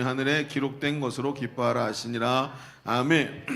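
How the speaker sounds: measured solemn Bible reading; formal scripture recitation. Acted. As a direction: read the passage aloud to the congregation.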